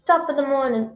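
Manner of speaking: hammed-up fake British greeting; clumsy British accent sliding toward Irish; terrible British accent. Shown as a demonstration. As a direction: attempt a bad British accent. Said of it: "I have a terrible British accent".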